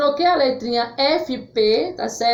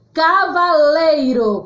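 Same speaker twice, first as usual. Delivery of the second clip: Cavaleiro said slowly and a bit louder; emphatic demo word; 3 semitones higher, 4 dB louder than usual. Shown as a demonstration. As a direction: announce Cavaleiro slowly to the class. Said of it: "com L".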